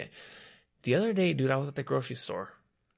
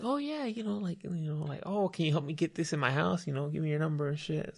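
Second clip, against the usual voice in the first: lightly voiced higher girl asking for help; 6 semitones higher than usual. Guy imitating a girl asking him to help, lightly higher. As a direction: play the sweet girl lightly.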